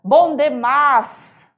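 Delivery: bom demais stretched slowly, Cuiabá style; Cuiabá accent bom demais; cuiabano drawl. Shown as a demonstration. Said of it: "Essa sonoridade dessas pronúncias".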